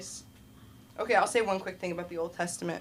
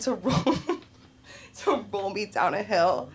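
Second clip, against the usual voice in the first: words broken up by laughter; laughing while telling. Real, not acted. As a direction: crack up halfway through the phrase. Laughs telling of the absurd threat.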